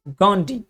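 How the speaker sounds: गांधी with a retroflex ड instead of ध; English reading. Shown as a demonstration. Teacher imitating an Englishman reading गांधी. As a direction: say गांधी as गाण्डी. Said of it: "वो पढ़ेंगे क्या".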